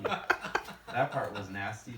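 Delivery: drawn out slowly, with mock disgust. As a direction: savour the word nasty, slow and grossed out. Roaster recoils at a gross detail.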